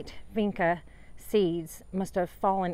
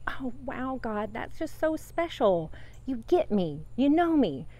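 gushing delight; 6 semitones higher than usual. Retold or imitated. Gushing thanks to God.

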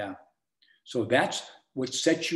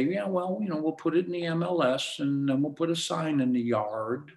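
high-pitched offhand shrug; mediocre agent; 4 semitones higher than usual. Acted. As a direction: toss it off like a lazy agent. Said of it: "a mediocre agent's gonna say".

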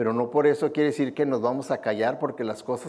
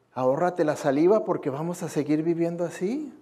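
sarcastic retort; 2 semitones higher than usual. Retold or imitated. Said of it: "sarcásticamente".

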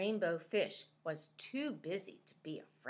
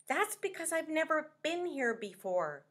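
Rainbow Fish; 8 semitones higher than usual. Acted. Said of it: "Rainbow Fish said".

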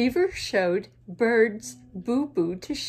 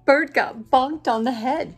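sheep voice; 3 semitones higher, 8 dB louder than usual. Acted.

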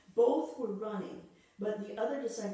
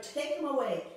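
louder, higher chant of a mob; the mob shouting at Pilate, loud and higher; crowd shout; 4 semitones higher, 5 dB louder than usual. Retold or imitated. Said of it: "But they shouted".

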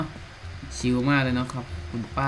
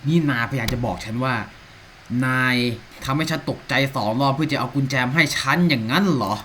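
mock outrage; 4 dB louder than usual. Annoyed rant at game character.

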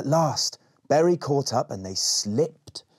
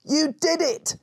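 high, delighted cheer; grinning; slower than usual. A narrator's reading. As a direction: beam and cheer him on. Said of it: "grinned Rowan".

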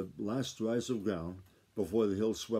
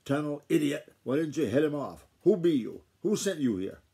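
loud, high-pitched scolding shout; angry shouting; 5 semitones higher, 6 dB louder than usual. A narrator's reading. Grandfather shouting at the boy who missed the hog, angry shout. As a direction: bawl out the boy, louder and higher. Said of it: "waving a long-handled shovel and shouting".

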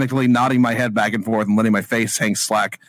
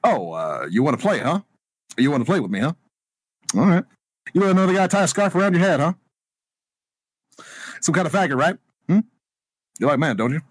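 Obama. Pretend. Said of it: "reading those fucking lines as Obama now".

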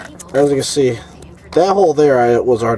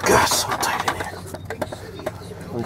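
strained whisper; 4 semitones lower, 10 dB quieter, much slower than usual. Real, not acted. Squeezed under the car.

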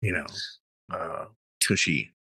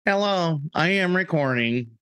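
robot voice; 11 semitones higher, slower than usual. Pretend. Mock announcement into mic.

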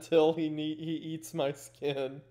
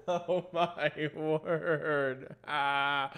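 nervous laughter; much slower than usual. Real, not acted. Spooked by knock, nervous laughing.

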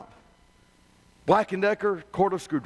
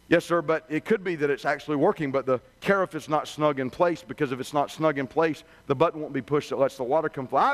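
lower, patient service voice; calm customer rep; 6 semitones lower than usual. Retold or imitated. Rep walks the angry customer through the checklist, calm and lower. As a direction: keep steady and polite with a difficult caller. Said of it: "The rep calmly replies".

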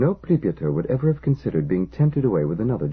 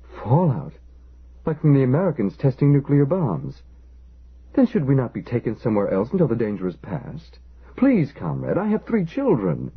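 put-on higher and pleading, worried for his children; plead, pitch climbing on the children; begging storekeeper; 5 semitones higher than usual. Father begging the engineer to come with them, anxious and higher. Zakharin begs for help.

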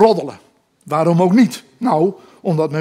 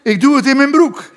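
high and loud through laughter; laughing helplessly; 9 semitones higher, 6 dB louder than usual. Retold or imitated. Mother laughing at her son's bra act, helpless high squeal. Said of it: "riep mijn moeder".

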